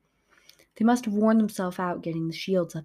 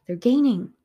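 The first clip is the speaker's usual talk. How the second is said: urgent shout; 4 semitones higher, 6 dB louder than usual. Acted. Serga yelling during the chase.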